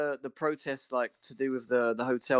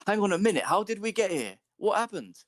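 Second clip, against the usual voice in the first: incredulous; 8 semitones higher than usual. Real, not acted. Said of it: "indignant disbelief".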